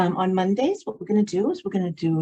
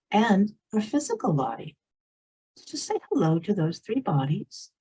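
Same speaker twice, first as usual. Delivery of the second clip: unhurried meditation guide with long pauses; guided meditation. Real, not acted. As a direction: lead them gently inward, leaving space between phrases.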